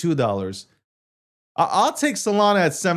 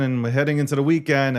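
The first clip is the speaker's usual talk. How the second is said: ordinary delivery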